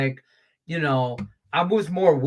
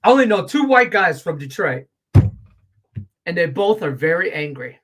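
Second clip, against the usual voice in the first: coworker's call-out; 2 semitones higher, 5 dB louder than usual. Retold or imitated. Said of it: "But he goes".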